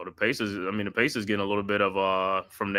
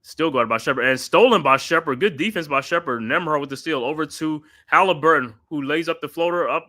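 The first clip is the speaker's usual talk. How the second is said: excited call; 6 semitones higher, 5 dB louder than usual. Acted. Steal in play-by-play.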